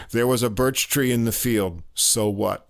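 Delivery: light Russian accent, deadpan. Shown as a demonstration. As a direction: read it with a hint of Russian accent. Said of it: "you have to say this in a Russian accent".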